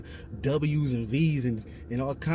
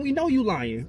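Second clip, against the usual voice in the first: raised, insistent pitch; exasperated accusation; 5 semitones higher than usual. Real, not acted. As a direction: call out the lie, pitched up. Calls out an imagined denial.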